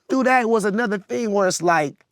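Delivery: ordinary delivery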